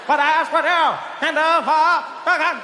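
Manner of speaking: slow, high Boston orator cadence; high and slow, an orator's drawn-out pauses; JFK impression. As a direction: drag out the grand pause like Kennedy. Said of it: "He had that thing".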